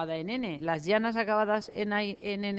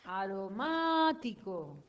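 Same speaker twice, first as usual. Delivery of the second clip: slow dictation; much slower than usual. Shown as a demonstration. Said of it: "Se acentúa".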